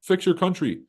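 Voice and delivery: high, smug mock voice; mock America. Mocking America offering to fix other countries, smug high voice. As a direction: play America as a pushy fixer. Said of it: "America will pull up and be like".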